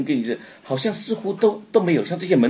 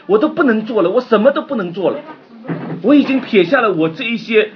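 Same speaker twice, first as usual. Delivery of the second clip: anguished disciple lament; 8 semitones higher, 8 dB louder than usual. Acted. Preacher voices disciples' lament.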